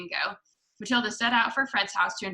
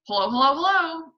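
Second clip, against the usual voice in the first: high, loud parrot greeting; parrot calling out; 7 semitones higher, 6 dB louder than usual. A narrator's reading. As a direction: call down like a squawking bird. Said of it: "a voice came loud and clear".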